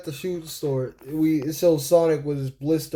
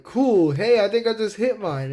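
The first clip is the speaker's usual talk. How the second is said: lightly voiced, higher cartoon sidekick; Tails; 6 semitones higher than usual. Tails answering Sonic, lightly raised cartoon voice. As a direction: chime in high and keen. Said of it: "Tails goes like".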